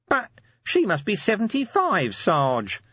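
stunned disbelief at the image; fascinated horror. A narrator's reading. Nobby aghast at the cleaner's age, fascinated horror. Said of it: "staring at nothing in fascinated horror".

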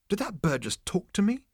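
high-pitched nervous question. A narrator's reading. Zaphod asking Marvin about the bird, nervous. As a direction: ask it in rattled disbelief. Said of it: "he asked Marvin nervously".

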